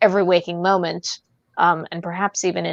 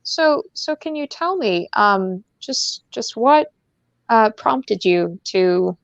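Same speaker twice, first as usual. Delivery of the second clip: light radio-host interviewer voice, drawn out; a gentle, probing radio interviewer; lightly voiced public radio host; imitating Carol Off; 2 semitones higher than usual. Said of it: "I can just imagine Carol Off calling him on the phone and be like".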